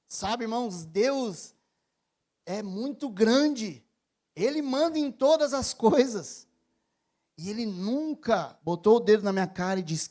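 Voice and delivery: loud impassioned sermon delivery; fervent preaching. Acted. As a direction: preach it out to the congregation. Preaching at full volume.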